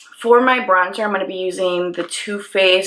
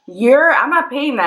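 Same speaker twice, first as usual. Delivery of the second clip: indignant refusal; 7 semitones higher than usual. Retold or imitated. Refusing to pay the fee.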